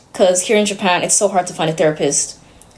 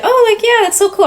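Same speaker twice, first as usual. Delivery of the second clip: friend's reply; 3 dB louder than usual. Retold or imitated. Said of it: "she was like".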